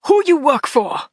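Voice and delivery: loud high demand; accented shout. A narrator's reading. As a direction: yell it at her. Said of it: "There was another shout".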